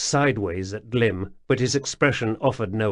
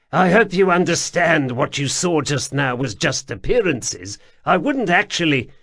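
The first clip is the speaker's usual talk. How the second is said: higher, louder, anxious and pleading; an eager stranger talking fast to excuse himself; nervous underground man; 6 semitones higher, 4 dB louder than usual. A narrator's reading. Wemreddle pleads with the lady, higher and anxious.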